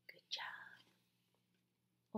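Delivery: gasp, then breathy whisper of praise. Acted. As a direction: whisper it like a secret delight.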